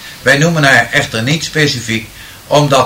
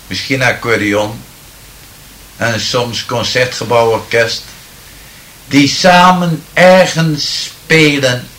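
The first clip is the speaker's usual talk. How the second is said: poem recital. Acted. Medium improvising a poem from the audience's words, declaiming solemnly. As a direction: recite the verse with rising solemn fervour, then let it fade.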